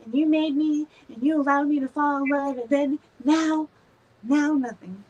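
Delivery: high, loud indignant protest; hammed-up heartbroken complaint to the divine; outraged self quote. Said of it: "And I'm like".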